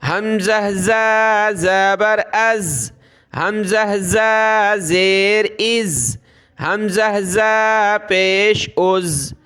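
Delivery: از held on a strong buzzing z; forceful buzzing z. Shown as a demonstration. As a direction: teeth together on زا and each از. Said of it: "دونوں دانتوں کو ملا کر زور کے ساتھ ادا کریں گے".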